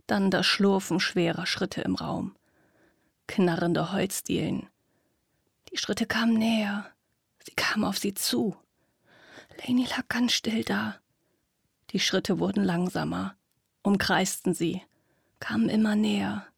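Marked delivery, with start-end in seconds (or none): 5.7-16.5 hushed creeping suspense; whispered narration. A narrator's reading. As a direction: whisper as the steps close in.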